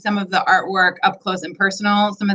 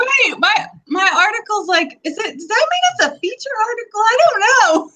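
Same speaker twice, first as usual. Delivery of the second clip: excited mock rambling; 13 semitones higher than usual. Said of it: "I was like".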